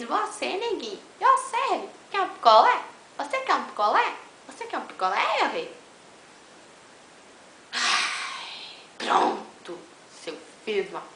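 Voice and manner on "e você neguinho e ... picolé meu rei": high, loud vendor call; street vendor voice. Pretend. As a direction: call out like a popsicle seller on the beach. Imitando vendedor de Fortaleza. (vendedor de picolé gritando)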